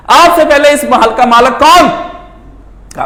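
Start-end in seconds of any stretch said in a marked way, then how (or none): 0.1-1.9 raised, higher-pitched question; pointed challenge. Retold or imitated. Fakir questioning the king about the palace, raised challenge. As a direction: put it to him in a lifted, ringing voice.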